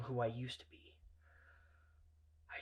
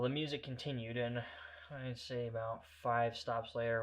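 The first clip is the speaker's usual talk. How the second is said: ordinary delivery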